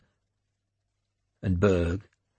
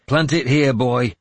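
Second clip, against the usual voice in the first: raised, firm order to a youngster; commanding warlord; 4 semitones higher, 5 dB louder than usual. A narrator's reading. Warlord telling the boy where the standard goes, commanding. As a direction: order him with a loud, higher voice. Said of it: "I told him".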